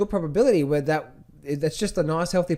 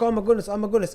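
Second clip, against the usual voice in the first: mildly panicked, higher-pitched mimicry; mock freaking out; 6 semitones higher, faster than usual. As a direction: imitate a trader fretting, raised pitch. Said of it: "they're freaking out".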